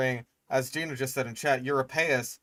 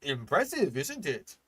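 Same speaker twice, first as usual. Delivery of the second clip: mocking impression; 4 semitones higher than usual. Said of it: "that one fucking guy that was just like".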